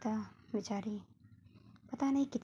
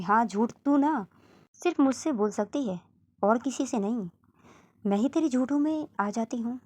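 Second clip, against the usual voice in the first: angry mother; 2 semitones higher, 7 dB louder than usual. Acted. माँ झूठ पर डांटती है.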